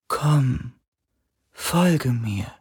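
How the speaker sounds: high, drawn-out, beckoning call; spirit's voice. A narrator's reading. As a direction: lure gently, like a fading spirit. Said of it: "die Stimme". (hohe, lockende Geisterstimme)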